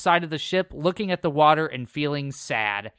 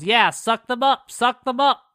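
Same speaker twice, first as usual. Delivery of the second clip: high, slightly louder imitation of an eager yell; mock yell; 8 semitones higher, 4 dB louder than usual. Podcaster retelling Jessie as she works the vacuum, high mock yell. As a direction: imitate her yelling, pitched well up. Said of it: "Jessie yells".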